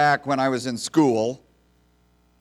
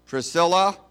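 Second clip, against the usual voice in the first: raised roll-call call of a name; teacher calling roll; 4 semitones higher, 4 dB louder than usual. Retold or imitated. Teacher calls the roll to the class, raised roll-call voice.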